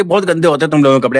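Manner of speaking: fast, dismissive mock complaint; her sneering tone. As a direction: spit it out quickly in disgust. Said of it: "ऐसे बोलती थी". (तेज़, झिड़कती नकल)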